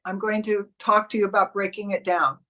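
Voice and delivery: ordinary talk, nothing marked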